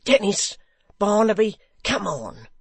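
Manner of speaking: rally them to the door; calling out. Acted. Hugh calling Dennis and Barnaby, loud shout.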